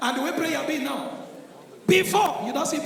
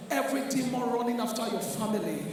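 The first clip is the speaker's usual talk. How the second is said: low, soft pastor, slowing at the end; mock-mild prayer against demons; posh modern prayer; 5 semitones lower, 8 dB quieter than usual. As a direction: call down destruction in a gentle voice. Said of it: "Jebo way now".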